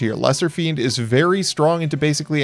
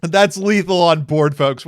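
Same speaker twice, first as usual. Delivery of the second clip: hiccups; 3 dB louder than usual. Real, not acted. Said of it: "now the hiccups".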